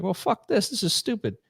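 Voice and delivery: high, fed-up grumble of soldiers; mock disgusted soldiers. Soldiers back from the South quitting communism, high fed-up mock grumble. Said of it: "were like".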